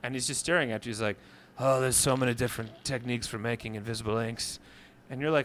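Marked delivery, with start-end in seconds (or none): 1.6-4.6 lower, half-hearted Swedish character; solemn Skarsgård. Acted. Skarsgård explains ink techniques to his finder, mildly solemn put-on voice. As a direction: lightly play the earnest Swede. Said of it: "You're terrible at Sweden".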